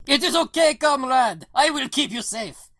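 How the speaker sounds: put-on high-pitched, thick Russian-accented reassurance; Russian accent, calling out. Driver yells through truck window to scared John, Russian accent. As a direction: call it out as a Russian comrade. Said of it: "He's yelling at you through the".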